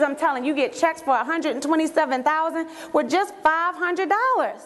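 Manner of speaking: gushing, over-eager sales spiel; overselling. Acted. Overeager recruit dumping the whole pitch on a prospect, gushing. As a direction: pile on the hype, stretching the big selling points. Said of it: "you just throw up all over people".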